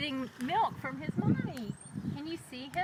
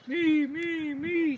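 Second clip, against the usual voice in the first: eager cow voice; 3 semitones higher, 3 dB louder, much slower than usual. A narrator's reading. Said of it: "says the purple cow".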